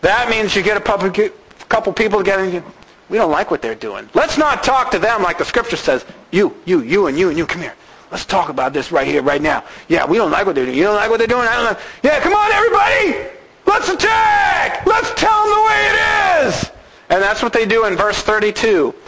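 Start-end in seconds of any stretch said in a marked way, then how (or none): 3.1-11.8 low, fast conspiratorial talk; low scheming voice. Acted. Plotting a pseudo-righteous coup. 12.0-16.7 rallying shout. Acted. Rallying crowd to attack.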